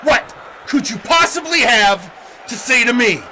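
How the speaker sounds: deliberate, broken-up angry question; emphatic demand. Acted. Wrestler challenging the Sith Lord to speak, deliberate angry emphasis. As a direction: space it out, leaning hard on POSSIBLY.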